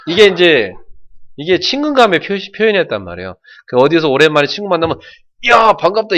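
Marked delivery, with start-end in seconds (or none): 5.5-6.1 hearty greeting. Shown as a demonstration. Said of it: "이거부터 우리는 하거든요".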